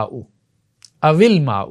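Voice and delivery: الخبز او الماء read as الخبز وِلماء, the و given a kasra; joined with kasra. Shown as a demonstration. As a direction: slide the kasra onto و: وِلماء. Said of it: "پہلے ساکن کو زیر دے دیتے ہیں".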